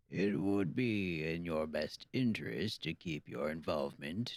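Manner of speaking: put-on gruff old shopkeeper, speeding up; old man warning, growing pushy. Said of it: "That's a really good old man voice".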